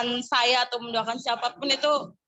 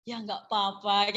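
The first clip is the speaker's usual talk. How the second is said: easy reassurance; 4 semitones lower, 4 dB quieter, slower than usual. Retold or imitated. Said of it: "Mbak Dea wis guya-guyu".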